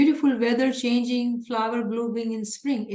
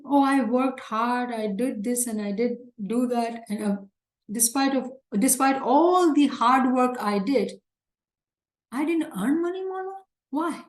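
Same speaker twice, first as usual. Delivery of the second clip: mock complaining. Preacher imitates a believer complaining to Mawla, mildly whiny. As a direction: act out the ungrateful believer's grumbling. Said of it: "Do they start complaining".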